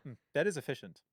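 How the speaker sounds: mock German appreciation, dropping to matter-of-fact; German approval. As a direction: lightly imitate a German's restrained approval. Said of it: "The Germans have my favorite. They're just like".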